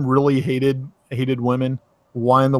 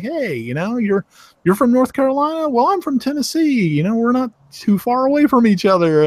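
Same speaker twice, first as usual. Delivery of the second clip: pitched-up, chatty hypothetical greeting; higher-pitched acted small talk; friendly conversation starter; 8 semitones higher than usual. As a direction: strike up a pretend chat in a higher voice. Acts out a friendly conversation opener.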